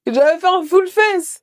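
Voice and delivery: high, slow wail of dismay; half-crying complaint over ruined make-up; tearful lament. Real, not acted. Tears ruining her make-up. (lamentation aiguë et traînante)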